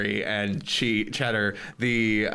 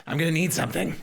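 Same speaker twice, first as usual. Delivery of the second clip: higher-pitched little creature; small creature pondering aloud; Twiggy's creature voice; 6 semitones higher than usual. Acted. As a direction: speak up high as a tiny magical helper. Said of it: "Twiggy smells it and goes".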